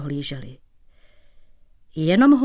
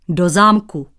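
louder, huffy snap; huffy retort; 4 dB louder than usual. Acted. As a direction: bristle at the cobbler. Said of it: "durdil se cizinec".

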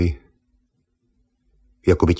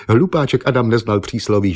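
ordinary delivery

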